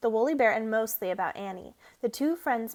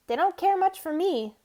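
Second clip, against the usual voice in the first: sad; 7 semitones higher, 6 dB louder than usual. A narrator's reading. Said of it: "said Alexander sadly".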